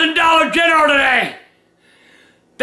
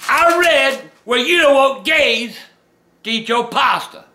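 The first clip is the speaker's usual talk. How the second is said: no teeth; 5 semitones lower than usual. Real, not acted. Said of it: "I ain't got my teeth".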